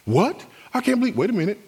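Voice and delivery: high, indignant disbelief; emotional outburst. Acted. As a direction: splutter as if freshly insulted. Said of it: "You just got emotional".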